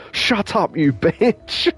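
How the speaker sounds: Bond's blunt snap. Retold or imitated. Bond yells at the crying woman, hammed-up mock anger. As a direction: bark it out like a brutal hero. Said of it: "and goes".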